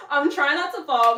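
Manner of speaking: laughing through strain; nervous laughing. Real, not acted. Straining on the wall, laughing nervously. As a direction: laugh while fighting to stay up.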